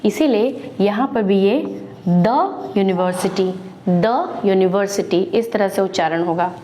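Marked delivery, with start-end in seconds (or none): 2.1-5.2 the university with a short "duh"; the before a "you" sound. Shown as a demonstration. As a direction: say the university, "duh" not "dee". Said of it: "it becomes a consonant sound".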